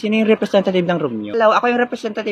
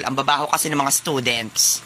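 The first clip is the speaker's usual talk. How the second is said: lower-pitched snooty complaint; haughty muttering to yourself; disdainful grumble; 5 semitones lower, 3 dB quieter than usual. Acted. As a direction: grumble about them with disdain. Snooty sir complains, student mimics.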